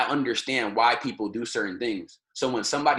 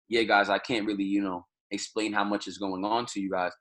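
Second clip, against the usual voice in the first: lower, flat-out unenthused delivery; low-energy, bored; 4 semitones lower than usual. Shown as a demonstration. Teacher demoing a dull, unexcited speaker, bored and low. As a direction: say it like you couldn't care less. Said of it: "Or if you're talking to somebody like this".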